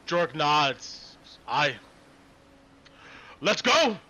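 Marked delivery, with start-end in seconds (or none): 1.5-4.0 rousing dwarf call to move; rally the group like a dwarf; gruff dwarf cheer. Acted.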